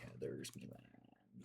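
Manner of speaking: low, slow, whispered pirate. Pretend. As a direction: growl it low like a pirate, slowly. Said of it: "Says the pirate".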